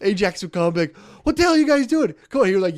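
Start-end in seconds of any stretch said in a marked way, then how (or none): 1.2-2.5 high, loud yell at the crew; boss yelling. Retold or imitated. Boss yelling at idle shovel crew, loud. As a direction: bark at slacking workers. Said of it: "yell at us".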